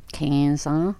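Québécois French vowel in "quinze ans"; Canadian French, "quinze" like "kaynz"; Canadian French accent. Real, not acted. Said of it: "that's very Canadian".

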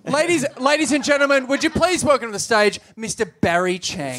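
announcer bringing on a guest; playful show-host announcement; mock stage introduction. Mock introduction of bogan character.

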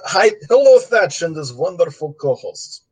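put-on light Russian gangster accent; a hint of a Russian mobster accent. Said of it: "this is Russian gangster voice".

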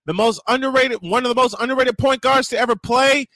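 high, loud excited yelling; excited shouting. Real, not acted. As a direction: shout it out, thrilled. Excited outburst over lineup.

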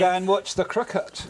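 a phrase in a put-on New Zealand accent. Shown as a demonstration. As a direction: sound like a New Zealand cricket fan. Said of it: "do a New Zealand accent".

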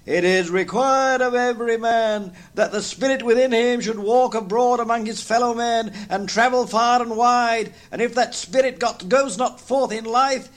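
high, hollow, mournful voices; ghost and terrified Scrooge. Acted. Marley's ghost laments his fate, high and mournful. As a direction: wail it like a lost soul.

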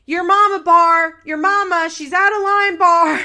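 high, loud mock scolding shout; imitated scolding. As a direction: call him out hard, pastor style. Pastor T scolding Bar loudly.

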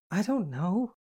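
tearful. A narrator's reading. Kitty admits to Astrid she is unsure, tearful. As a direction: admit it helplessly, voice lifted high. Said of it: "tears flowing freely".

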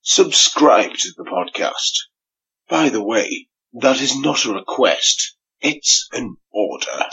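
slow, commanding promo read; podcast bumper. Acted. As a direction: order the listeners to subscribe, slowly. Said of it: "press this one one more time".

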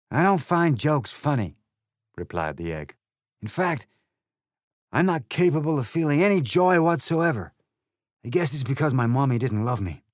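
rude Trumpty Dumpty. Acted. The egg insults Alice, loud sneering voice. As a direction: sneer it with contempt.

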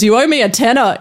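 rough imitation of a Northern Irish kid; lightly put-on Northern Irish lilt; attempted Northern Irish accent. Guest quoting kid from a video, half-attempted Northern Irish accent. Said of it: "in the thickest Northern Irish accent".

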